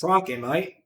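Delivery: light Australian Steve Irwin impression, rising mate; first stab at an Australian accent. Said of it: "Steve Irwin".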